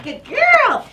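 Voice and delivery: excited praise. Real, not acted. Trainer praising the poodle for tugging, high and excited. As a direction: reward the dog with a bright high burst. Praising dog mid-play.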